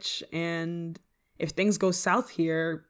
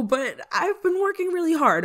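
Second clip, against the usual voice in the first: high, louder protest; pleading self-defence, pitched up; defensive insistence; 10 semitones higher, 5 dB louder than usual. Acted. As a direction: push back against the doubt. Defending her short experience.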